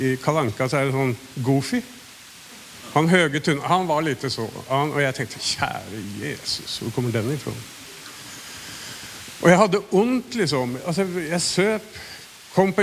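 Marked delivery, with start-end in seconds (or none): 5.4-7.5 hushed inner prayer. Retold or imitated. Silent prayer at the coworker.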